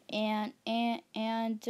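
nervous repeated stammer; stuttering. Real, not acted. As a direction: stumble over the words nervously. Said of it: "do you even know why I'm stuttering?".

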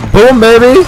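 loud, high victory yell; loud gloating shout; triumphant cheer. Real, not acted. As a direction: crow over the kill. Celebrating a kill.

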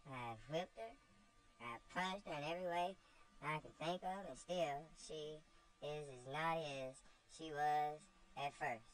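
tired of scolding, venting frustration; exasperated Miss Ophelia. Acted. Aunt complains to Saint Clair, lightly voiced exasperated aunt.

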